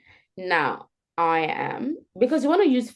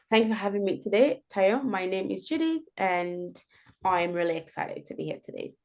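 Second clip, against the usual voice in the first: warm intro; 4 dB quieter than usual. Shown as a demonstration. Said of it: "That progression".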